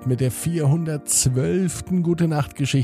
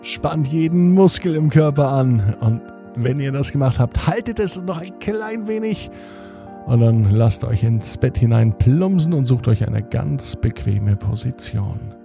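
sleep story narrator. Acted. Bedtime podcast host intro.

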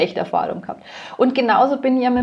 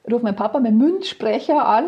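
normal talking voice

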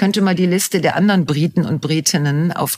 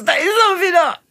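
amused recognition; 12 semitones higher than usual. Retold or imitated. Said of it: "du denkst".

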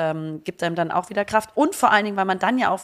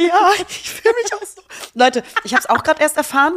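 laughing; 10 semitones higher, 5 dB louder than usual. Real, not acted. Playful joke, laughing.

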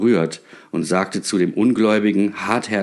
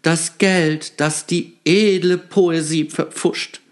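sighing; 9 semitones higher, slower than usual. A narrator's reading. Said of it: "seufzte der Dichter Kersmakers".

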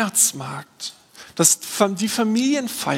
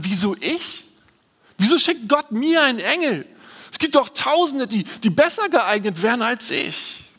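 higher, incredulous questioning; bewildered Mary; 4 semitones higher than usual. Pretend. Pastor voices Mary's first doubting thoughts, incredulous. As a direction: voice Mary's disbelief at being chosen. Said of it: "Marias erste Gedanken waren".

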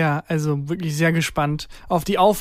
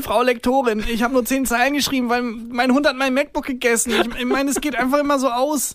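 higher whiny excuse to the editor; mock excuse voice; 6 semitones higher than usual. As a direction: play the lame-excuse writer, pitched up.

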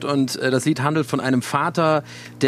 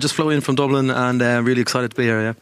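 put-on English with a Dublin Irish accent. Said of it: "Englisch mit irischem Akzent". (irischer Akzent auf Englisch)

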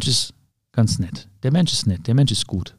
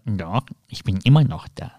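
lightly voiced pain; 4 semitones lower, 4 dB quieter than usual. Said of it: "Und sagt".

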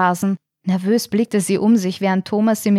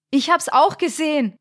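higher, urgent call; excited call; 7 semitones higher than usual. A narrator's reading. Thomas calling out that he saw it too, alarmed. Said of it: "rief Thomas".

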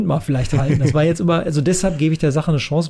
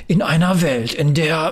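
trailer guy voice. Retold or imitated. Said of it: "Trailer-Guy-Voice?".

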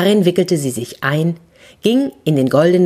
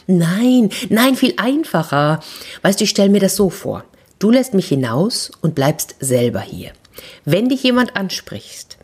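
eager scheming. Acted. Horse eagerly explains plan.

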